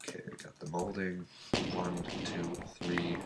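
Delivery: blocked nose, stuffed up; stuffy nose. Real, not acted. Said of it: "I'm a little stuffed up today".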